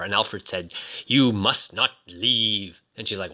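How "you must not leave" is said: slow, measured computer refusal; a hint of a stern machine, drawn out. Computer tells Susan she cannot go, slow computer voice.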